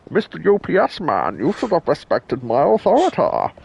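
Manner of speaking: bossy Cartman demanding respect; Cartman impression. Playing Cartman demanding the UPS man respect his authority. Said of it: "Cartman's impression".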